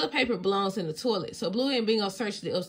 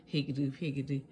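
laughing; 6 semitones lower, 6 dB quieter than usual. Real, not acted. Reader laughs at the word.

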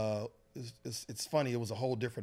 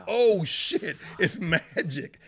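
higher, louder star-struck gasp; shocked kid spotting a star; excited shout at seeing Magic; 7 semitones higher, 11 dB louder, much slower than usual. Retold or imitated.

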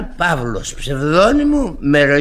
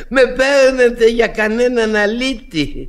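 offended; 9 semitones higher, 6 dB louder than usual. Acted. Drunk painter takes offence.

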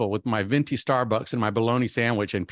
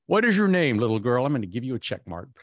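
mock stern teacher. Mock teacher scolding the girl.

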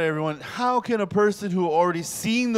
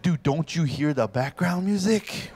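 slow exasperated plea; 4 semitones higher than usual. Retold or imitated. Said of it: "it's like".

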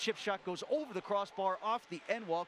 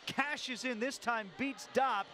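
lingering goal excitement; 4 semitones higher than usual. Real, not acted. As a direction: keep riding the goal's energy. Replay description after goal.

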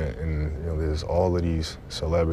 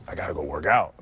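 eager for it; faster than usual. Acted. Player showing that working out is fun, eager. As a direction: say it like you can't wait to train. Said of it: "It's like".

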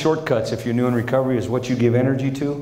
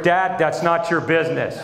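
put-on scolding kid; 4 semitones higher than usual. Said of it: "From the back seat, we hear".

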